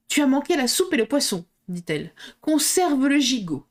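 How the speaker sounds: queenly voice. Acted. Red Queen addresses Alice.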